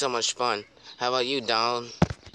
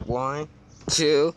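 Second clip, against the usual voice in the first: excited shout; 4 semitones higher, much slower than usual. Pretend. Countdown to big jump.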